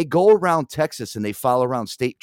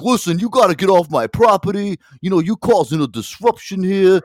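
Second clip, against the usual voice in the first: loud, raised-pitch imitation of an irate man; retold yelling; 5 semitones higher, 6 dB louder than usual. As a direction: imitate someone ordering a person off their property. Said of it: "recording you yelling at somebody".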